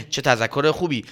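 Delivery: said through a laugh. Acted. Everyone laughing at the good reminder. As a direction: laugh as you say it.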